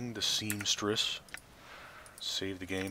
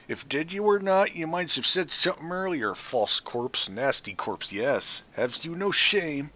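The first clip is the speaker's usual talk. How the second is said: much higher and louder, scolding the corpse; angry crone scolding; 9 semitones higher, 5 dB louder than usual. Acted. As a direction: berate a false corpse like a furious hag. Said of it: "then hisses angrily".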